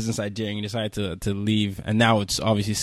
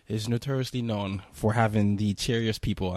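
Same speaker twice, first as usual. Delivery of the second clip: sarcastic; 2 semitones lower, 6 dB quieter than usual. Real, not acted. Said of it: "and I'm being sarcastic".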